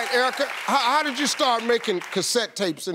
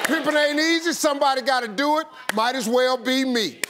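performing his routine; 4 semitones higher than usual. Retold or imitated. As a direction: belt the old bit like on stage. Host performs his old routine line.

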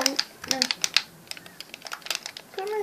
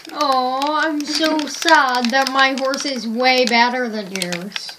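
sarcastic; 5 dB louder, much slower than usual. Real, not acted. Mocking friend about horses.

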